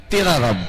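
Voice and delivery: تیرا punched loud; stress on تیرا. Shown as a demonstration. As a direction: hit the word تیرا hard. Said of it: "اس کے ساتھ کا ضمیر لگائی". (تیرا پر زور)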